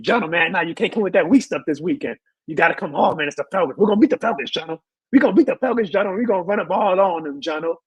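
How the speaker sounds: mock hype, pitch lifting as it goes; egging on. Host retells co-host's texts about the Falcons, egging on. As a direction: imitate a pal goading you into trash talk. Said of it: "He kept egging me on".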